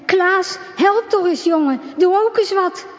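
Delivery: calling out. A narrator's reading. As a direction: urge the limp boy to stir, a notch up. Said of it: "en roept".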